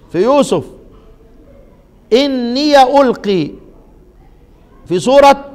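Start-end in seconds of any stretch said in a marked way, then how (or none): 2.1-3.5 إني ألقي recited slowly with the ya opened; Quranic recitation. Shown as a demonstration. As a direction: chant it slowly, open ya. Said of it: "زي ما أنا قرأت كده". (تلاوة إني ألقي بفتح الياء)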